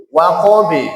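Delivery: WAQABI ending in a light 'be'; imalah bounce. Shown as a demonstration. Teacher explains thin qalqalah, Waqabi leaning to e. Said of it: "condongnya ke imalah kubro".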